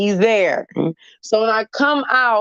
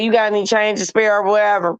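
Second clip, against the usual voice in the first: quick, level-pitched mock begging, barely trying; unenthusiastic begging; faster than usual. Beggar asking a shopper for change, mock unenthusiastic. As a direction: mildly imitate a listless, quick beggar. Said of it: "begging with no enthusiasm".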